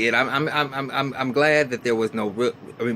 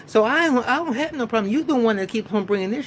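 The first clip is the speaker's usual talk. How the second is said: imitating a heated retort; 9 semitones higher than usual. Retold argument, Maya's retort.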